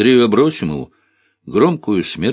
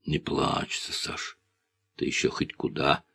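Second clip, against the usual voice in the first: playful; 6 semitones lower, 10 dB quieter than usual. A narrator's reading. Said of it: "игриво шлёпнул он".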